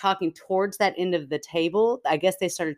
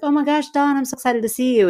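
high, excited mock gush; excited greeting; 9 semitones higher than usual. Greeting a long-lost friend at dinner, excited and high. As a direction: squeal hello to an old friend.

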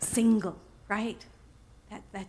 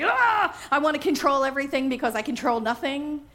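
mock frantic, a little higher, quick; frantic spinning out; 3 semitones higher than usual. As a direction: play the panicked control freak lightly. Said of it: "I spin out of control sometimes".

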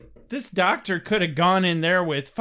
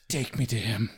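lower, soft bleating goat voice; 8 semitones lower, 5 dB quieter than usual. Acted. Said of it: "more of a goat impression at the end there".

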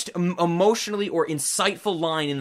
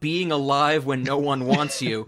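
mildly hammed-up movie insult, louder at the end; quoted villain's insult; 5 dB louder than usual. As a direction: retell a snide put-down, building to the final question. Quotes villain's insulting line at wedding.

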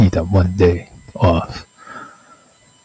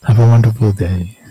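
sarcastic. Shown as a demonstration. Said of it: "that's still sarcastic".

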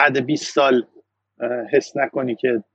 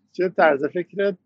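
slow musing thought; slower than usual. Retold or imitated. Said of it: "من فکر کردم".

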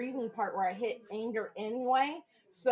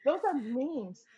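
slow, superior put-down; slow scornful jab; condescending retort; 4 dB louder, slower than usual. Retold or imitated. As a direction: talk down to him slowly. Speaker's retort.

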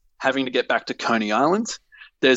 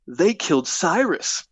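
Luther slow accusation; 5 semitones higher, slower than usual. Acted.

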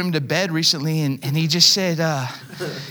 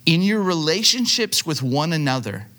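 deliberate verse reading. Real, not acted. Preacher asks the church to hear a verse, deliberate reading. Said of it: "just, just hear these words".

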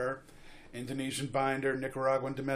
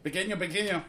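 mock Spanish accent; 6 semitones higher, much faster than usual. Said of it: "I'm not even gonna do an accent".

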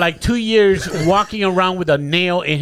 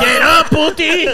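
high, slow puppet call, louder; 10 semitones higher, 4 dB louder, slower than usual. Pretend. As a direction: call out in the doll's pitched-up voice. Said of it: "he's doing the voice".

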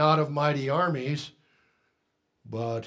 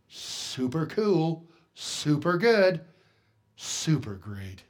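slow, drawn-out mock gush; a touch of sarcastic cooing; much slower than usual. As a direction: drag out each super sarcastically. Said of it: "In our churches today, we have".

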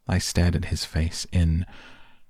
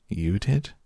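disbelief; 4 semitones higher than usual. Acted. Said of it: "I asked in disbelief".

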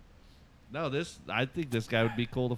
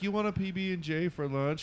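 put-on innocent girlfriend voice; 6 semitones higher than usual. Girlfriend asking innocent question.

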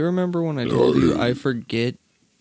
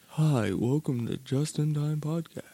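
deep radio voice; 2 semitones higher, 6 dB quieter than usual. Acted. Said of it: "That's about the deepest you've ever gotten".

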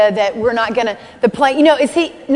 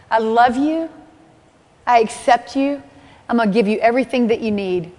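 smiling God's voice. Retold or imitated. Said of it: "he's always smiling".

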